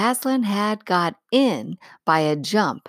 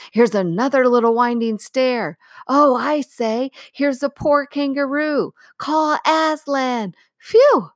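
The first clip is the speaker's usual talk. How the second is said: excited high calls from the crowd, loud; crying out at once; 8 semitones higher, 4 dB louder than usual. A narrator's reading. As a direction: shout eagerly from all sides. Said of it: "everyone's voices crying out at once".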